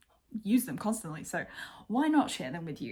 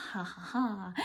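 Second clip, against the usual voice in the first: short amused laugh; 4 dB quieter than usual. Real, not acted. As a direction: laugh it off lightly. Laughing at the video title.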